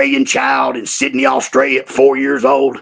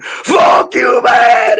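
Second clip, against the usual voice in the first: put-on high, loud old man's retort; gruff comeback shout; 8 semitones higher, 4 dB louder, much slower than usual. Old Joe answering the visitor, shouting back. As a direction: snap it back, louder. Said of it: "He said".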